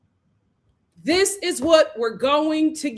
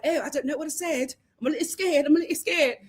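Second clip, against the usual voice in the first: mock scared mumble; 4 dB quieter, faster than usual. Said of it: "Zach is just like".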